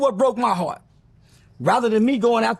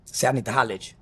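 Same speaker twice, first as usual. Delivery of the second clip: big dude's voice; 11 semitones lower, 5 dB quieter, much faster than usual. Retold or imitated. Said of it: "He said, uh".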